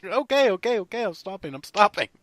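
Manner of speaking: high laughing surrender; backing off quickly, amused; giving in. Retold or imitated. Giving in after being sprayed.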